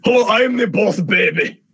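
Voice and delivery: a bad Boss Baby in Scottish; hammed-up Scottish baby introduction; terrible Scottish accent. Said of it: "That's a terrible, what was that?".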